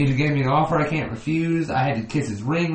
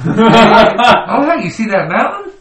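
excited pilot chatter; 7 semitones higher, 8 dB louder, slower than usual. Pretend. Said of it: "pilots before crash".

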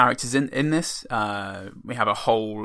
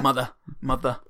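Boston accent. Shown as a demonstration. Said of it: "mother in a Boston accent".

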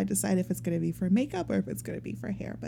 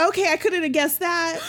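laughing; 6 semitones higher, 3 dB louder than usual. Real, not acted. Reacts to surprising theory.

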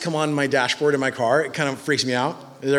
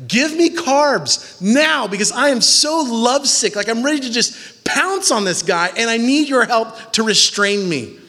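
mock lovesick plea; 6 semitones higher, 4 dB louder than usual. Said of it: "she's like".

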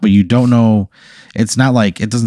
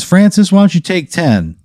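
high-pitched, showy man in charge; put-on genial boss voice; booming problem-solver; 9 semitones higher than usual. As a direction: sweep in and take command, pitched way up. Same figure dismisses the clerk.

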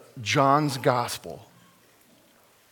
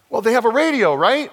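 urgent alien plea; 10 semitones higher, 7 dB louder, faster than usual. Retold or imitated. Alien pleading in retold story.

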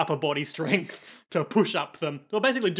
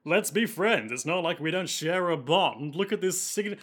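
lightly voiced smooth schemer, barely off her own voice; a faint, half-hearted suave villain voice; bad Matt Berry impression; 3 semitones higher than usual. Podcaster voicing the student council president, a light mock Matt Berry. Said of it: "my voice for him is like a bad Matt Berry impression".

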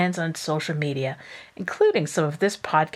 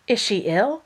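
worried; 4 semitones higher than usual. Acted. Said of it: "cried Missus Dashwood".

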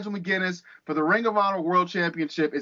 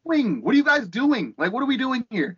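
high, worked-up scolding; exasperated rant; 5 semitones higher than usual. Real, not acted. Fed-up wrestling fan berates Twitter fans, exasperated rant. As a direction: tell them off, pitch climbing in exasperation.

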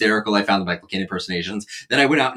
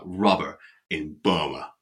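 Michael Caine accent; 6 semitones lower, 6 dB quieter, slower than usual. Shown as a demonstration. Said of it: "say that with more marbles in my mouth".

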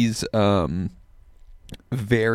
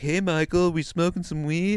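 raised, high-pitched imitation of a friend; playful calling out; 8 semitones higher than usual. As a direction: pitch it up like hailing someone. Acts friend calling out to the comedian.

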